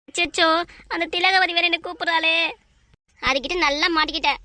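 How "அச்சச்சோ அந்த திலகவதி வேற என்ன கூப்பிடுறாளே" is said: louder, mildly panicked dismay; frightened dismay. Acted. Debtor hearing her creditor call her, alarmed dismay. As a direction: blurt out in alarm at being caught. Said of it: "ஏன்டி பயப்படுற".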